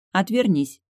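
a touch of a stern command; demanding. Acted. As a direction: tell him firmly to turn away. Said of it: "потребовала я".

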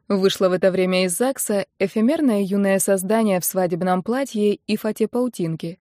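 ordinary delivery, nothing marked

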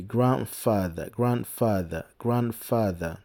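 "Grandfather" with the D swallowed, "granfather"; teacher shows the D dropped in "Grandfather"; swallowed consonants. Shown as a demonstration. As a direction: blend "grand" into "father" and drop the D. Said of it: "on avale les premières consonnes".

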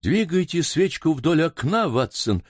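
eager high call to Watson; urgent, caught in the chase; exclaiming. Acted. Baronet excitedly calling to Watson at the window, urgent. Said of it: "воскликнул баронет".

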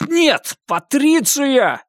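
high, slow, drawn-out cry of the name; desperate shout. Acted. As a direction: call out to her in despair. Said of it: "крикнул я".

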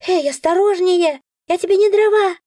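high, loud squeaky protest; indignant creature. A narrator's reading. Nora thrown on the bed, high squeaky protest. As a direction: yelp at being tossed.

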